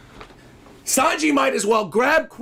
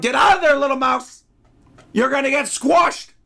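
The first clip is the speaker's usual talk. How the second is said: urgent shout; 4 semitones higher than usual. Real, not acted. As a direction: call out to warn the mouse. Yelling at mouse in panel.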